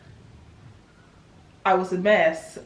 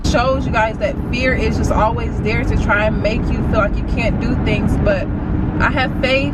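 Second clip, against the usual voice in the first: self pep talk; 3 semitones higher, 3 dB louder than usual. Real, not acted. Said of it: "preaching to herself on clip".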